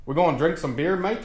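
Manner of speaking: put-on Irish accent drifting toward Australian; attempted Irish accent. Host jokingly imitating an Irish YouTuber, botched Irish accent. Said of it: "I said it like Jacksepticeye, 'cause he's fucking Irish".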